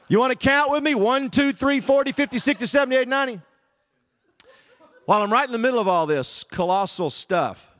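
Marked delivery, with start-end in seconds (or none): 0.1-3.4 mocking count. Mock counting lesson to cashier.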